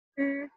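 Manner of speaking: Zhi with the tongue curled up; retroflex zhi. Shown as a demonstration. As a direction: curl the tongue back for Zhi. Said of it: "naikkan ya lidahnya".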